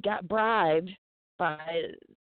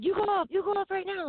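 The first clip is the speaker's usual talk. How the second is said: urgent coordinator quote; 13 semitones higher than usual. Retold or imitated. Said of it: "the coordinator came in".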